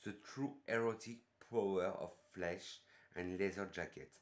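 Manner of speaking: English read with a French accent. Real, not acted. Perfume reviewer reading the English blurb to viewers, French-accented English. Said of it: "mon superbe accent anglais depuis le début".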